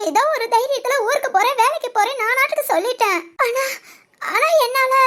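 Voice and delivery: tearful, faltering confession; crying. Acted. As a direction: break down while admitting you can't cope. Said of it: "மொத அழாத, அழுகை நிப்பாட்டு". (அழுதுகொண்டே தடுமாறி)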